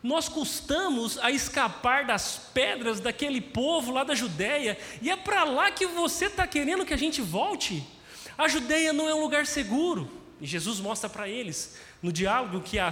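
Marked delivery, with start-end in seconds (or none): 0.0-10.1 rising higher, disbelieving, asking if he's crazy; incredulous protest. Retold or imitated. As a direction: push back in alarmed disbelief. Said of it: "O que os discípulos estão dizendo é".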